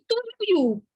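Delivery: "Tuiuti" stretched slowly, high, each vowel heard; syllables drawn out. Shown as a demonstration. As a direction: draw out "Tuiuti" to show its vowel groups. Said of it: "eu tenho ditongo".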